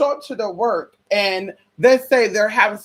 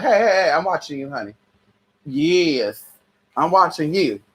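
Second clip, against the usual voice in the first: playful warning; 6 semitones lower than usual. Acted. Teasing warning to viewers.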